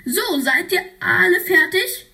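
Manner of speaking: high put-on teacher voice. Teacher asking if everyone is done, high put-on voice. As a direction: call it out to the class.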